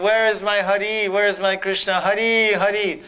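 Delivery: weep out the question for the lost beloved; imitating the saint crying for Krishna; crying in longing.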